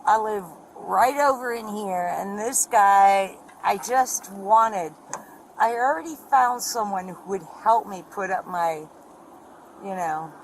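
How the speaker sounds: words dragging, really intoxicated. Real, not acted. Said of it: "slurring her words".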